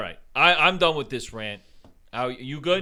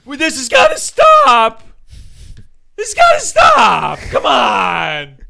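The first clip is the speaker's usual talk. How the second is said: high shouted mock politician voice; mocking de Blasio; 6 semitones higher, 10 dB louder than usual. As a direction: shout it up high like a flustered mayor. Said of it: "you got de Blasio".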